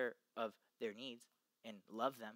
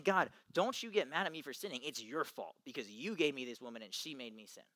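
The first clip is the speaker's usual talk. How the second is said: accusing God; 6 dB louder than usual. Retold or imitated. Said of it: "He's saying".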